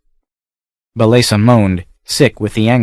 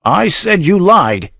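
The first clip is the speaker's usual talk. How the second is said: slow, raised menacing roar; 9 semitones higher, slower than usual. Acted. Count roars at the child, lightly raised. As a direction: bear down on each word. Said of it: "roared Valenzo".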